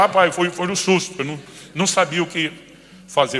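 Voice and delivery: son's excuse. Retold or imitated. Son excusing himself sheepishly.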